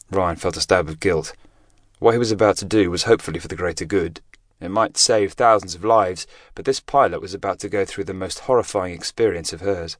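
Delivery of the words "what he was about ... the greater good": usual speaking voice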